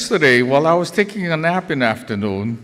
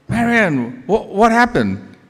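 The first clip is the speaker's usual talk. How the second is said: higher, anxious question; retold worried husband; 6 semitones higher than usual. Husband answering his wife's unexpected call, worried. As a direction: stammer a worried question into the phone.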